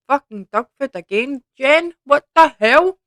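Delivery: loud, high exasperated swearing; disgusted outburst. Real, not acted. Vlogger scolding herself after another dog-food bean, loud exasperated outburst. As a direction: lash out at the bad luck, loud and high.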